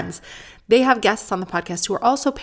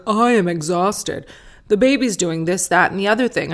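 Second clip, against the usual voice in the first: put-on whining about how exhausted the new baby makes him; mock exhausted dad. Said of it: "go on podcasts being like".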